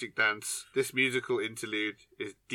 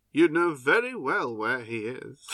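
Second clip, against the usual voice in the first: slow, deliberate quoted villain line; lightly theatrical, measured delivery; imitated film line delivery; 3 semitones higher, 5 dB louder than usual. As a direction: draw it out with knowing relish. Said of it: "mainly 'cause of the delivery".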